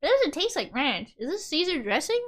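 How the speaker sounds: chewing carrots while talking; crunching carrots. Real, not acted. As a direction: talk through crunchy bites. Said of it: "I'm crunching in your ear".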